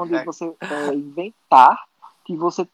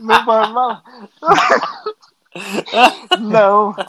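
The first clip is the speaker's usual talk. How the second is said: coy laugh; 4 semitones higher than usual. Real, not acted.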